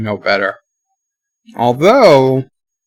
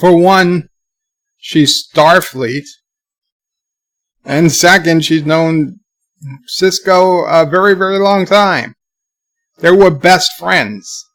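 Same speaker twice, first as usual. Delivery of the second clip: emphatic; 4 semitones higher than usual. Real, not acted. Insistent defense of Dax.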